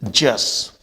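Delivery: religious broken before a final 'jus'; correct pronunciation. Shown as a demonstration. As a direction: end religious on 'jus', no i sound. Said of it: "not religious". (religious का अंत 'जस')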